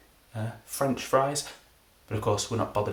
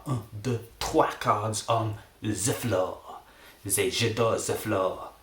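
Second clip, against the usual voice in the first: put-on French accent. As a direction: attempt a French accent, lingering on the words. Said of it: "I will be doing a French accent".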